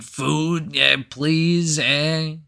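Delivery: lightly voiced strung-out man begging; cracked-out homeless man. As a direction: plead like a cracked-out beggar. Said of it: "cracked out".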